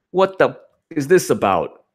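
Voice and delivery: a hint of a whining fan; mild mock complaint. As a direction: ask it in a lightly upset put-on tone. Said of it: "then she goes".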